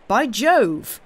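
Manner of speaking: loud, high exclamation; astonished cry. A narrator's reading. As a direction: burst out, greatly struck. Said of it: "cried the doctor".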